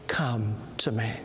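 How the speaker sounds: hushed whispered invitation. Acted. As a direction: whisper it softly as the Lord. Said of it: "Do you hear the voice of the Lord".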